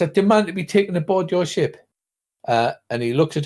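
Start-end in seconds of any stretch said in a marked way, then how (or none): 0.0-1.8 haughty demand. Acted. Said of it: "she says".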